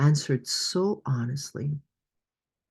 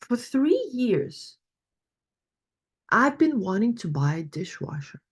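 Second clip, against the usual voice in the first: a hint of a higher complaining woman; slightly raised voice, weary griping; lightly voiced participant; 4 semitones higher than usual. Coach voices a participant complaining about dishes, lightly higher. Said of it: "She goes".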